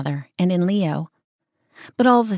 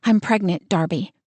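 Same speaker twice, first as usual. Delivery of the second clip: strong and sure. Acted. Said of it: "in a voice strong and sure".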